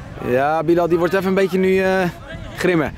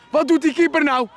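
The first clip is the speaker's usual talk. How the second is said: exasperated shout; 11 semitones higher than usual. Acted. Commentator shouting at the keeper's blunder, exasperated.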